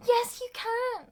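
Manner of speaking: high, loud, drawn-out encouragement; insistent mock retort.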